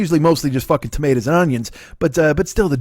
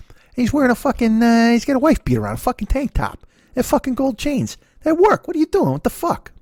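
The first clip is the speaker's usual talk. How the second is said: lightly mocking, pitched way up; high mock voice; 9 semitones higher than usual. Mocking the stepdad's coworker in a high squeal. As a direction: squeal it out in disbelief.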